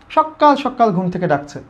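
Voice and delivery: "সকাল" said with a held, doubled k; emphatic doubled consonant. Shown as a demonstration. Teacher repeats the early-waking example for students, emphatic. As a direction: press on the k in each "সকাল". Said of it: "সকাল জোর দেওয়ার জন্য কী করলাম".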